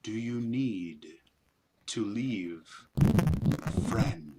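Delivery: slow alien voice, friend said stiff and strange; awkward creature voice. Acted. Spiders ask the party what they need, slow and awkward. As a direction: stumble over the word friend as if new. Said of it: "very large emphasis on that, that word".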